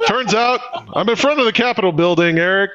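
fast, playful reporter voice; mock news reporter. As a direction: report it like a live correspondent. Mock field reporter bit.

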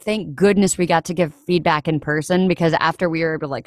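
ordinary delivery

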